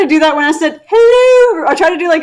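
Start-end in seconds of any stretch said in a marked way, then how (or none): 0.9-1.6 higher, lightly put-on old nanny voice; a quick falsetto-ish nanny greeting; Mrs Doubtfire. Guest showing her attempted accent, a light Mrs Doubtfire hello. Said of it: "a Missus Doubtfire thing".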